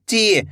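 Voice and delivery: ची with a long, held ee; drawn-out vowel. Shown as a demonstration. Teacher shows how the long-ee sign is read, ची drawn out. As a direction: stretch the ee in ची. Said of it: "बड़ी ई की मात्रा को खींच के पढ़ा जाता है".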